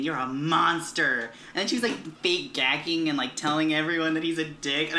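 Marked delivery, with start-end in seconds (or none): 0.0-1.3 retold tearful accusation. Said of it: "what's her name was crying".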